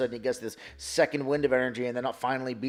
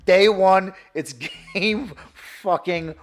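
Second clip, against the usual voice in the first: louder and higher, gushing; hyped fanboy; 5 semitones higher, 9 dB louder than usual. Retold or imitated. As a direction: rave like you're already sold. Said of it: "I'm like".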